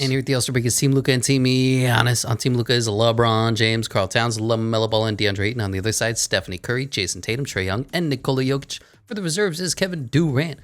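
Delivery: a light mock TV announcer read of the rosters; all-star announcer. Gamer reading the All-Star rosters, mock announcer style. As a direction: present each team like the broadcast host.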